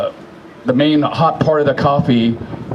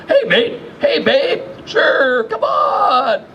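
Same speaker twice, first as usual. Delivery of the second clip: cheerful welcome; 10 semitones higher, slower than usual. Retold or imitated. Voicing Dogfish welcoming her.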